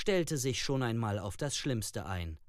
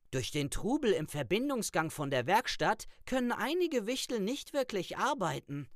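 high, hurried nervous explanation; 9 semitones higher, faster than usual. A narrator's reading. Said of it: "sammelte kurz nervös seine Worte". (nervös und schnell erklärend)

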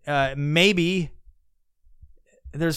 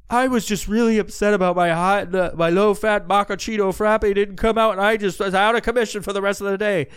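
higher, louder whiny complaint; whiny influencer parody; 4 semitones higher, 4 dB louder than usual. Retold or imitated. Podcaster mocking an influencer's Starbucks complaint, whiny and high. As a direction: ham up a spoiled influencer.

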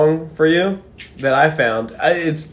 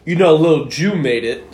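dramatic poem reading. Pretend. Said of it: "read 'em like a dramatic poem".

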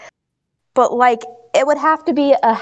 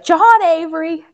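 slow, higher-pitched full-name scolding; mock parental scolding; 6 semitones higher, slower than usual. Tom scolding Wit, acted out.

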